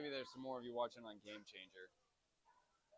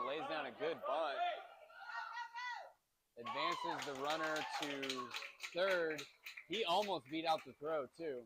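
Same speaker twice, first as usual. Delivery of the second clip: louder, upbeat play-by-play; lively call; 3 semitones higher, 4 dB louder than usual. Real, not acted. Parent streaming a youth game to viewers, lively call. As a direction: call the bunt with rising energy.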